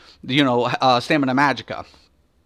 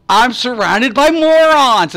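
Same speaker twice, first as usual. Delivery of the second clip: high, slow, louder mock despair; exasperated; 9 semitones higher, 5 dB louder, slower than usual. Gamer ranting to his viewers about morons, high exasperated moan. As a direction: moan it like a put-upon genius. His own reaction, quoted.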